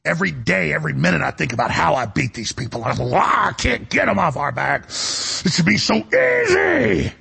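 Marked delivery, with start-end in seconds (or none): 3.2-7.1 frustrated wail climbing very high; acted howl of frustration; exasperated outburst. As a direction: cry it out, stretching the last words high and slow. Acts out his frustrated inner cry.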